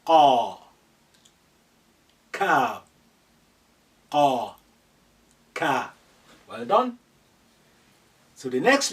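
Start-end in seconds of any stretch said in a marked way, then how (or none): 0.1-5.9 ka said loud with clear mouth movement; kaf demo. Shown as a demonstration. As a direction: show the mouth shape for ka. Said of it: "Look at the movement, the mouth".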